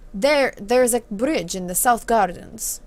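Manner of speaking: put-on country boy accent. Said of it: "he is a country boy".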